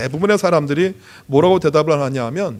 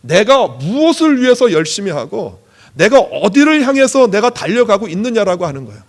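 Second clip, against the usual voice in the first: raised, insistent pulpit voice; emphatic preaching; 4 semitones higher, 6 dB louder than usual. Real, not acted. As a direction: preach it with punched key words. Preaches to congregation.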